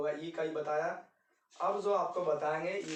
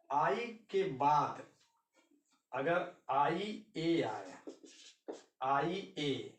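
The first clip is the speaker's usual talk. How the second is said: slow; much slower than usual. Shown as a demonstration. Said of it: "slow rule explanation".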